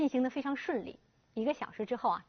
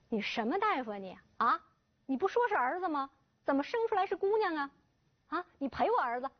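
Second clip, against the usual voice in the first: angry confrontation; 4 semitones higher than usual. Acted. Father storms doctor's office.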